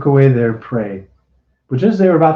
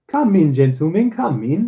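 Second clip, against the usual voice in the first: calling out; 6 semitones higher than usual. A narrator's reading. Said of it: "D'Artagnan called to them".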